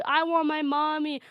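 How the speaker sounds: high-pitched imitation of a bawling child; mock crying kid. Bullied seven-year-old wanting his mom, mock crying. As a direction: lightly mimic a little kid's wail. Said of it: "He's crying".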